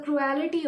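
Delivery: cruelty said as "cru-AL-ity"; mispronounced cruelty. Real, not acted. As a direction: stretch cruelty into four syllables, cru-al-i-ty. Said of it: "why am I pronouncing it as cruelty".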